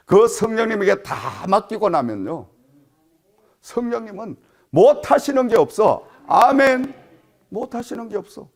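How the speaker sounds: sermon proclamation, pitch lifted; emphatic preaching. Real, not acted. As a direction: declare it firmly to the congregation. Preaches to congregation.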